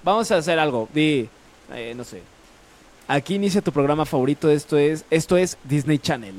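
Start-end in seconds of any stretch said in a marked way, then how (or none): 3.1-6.4 quick channel announcer read; announcer demo. Shown as a demonstration. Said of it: "o sea, dilo así". (lectura de locutor de canal)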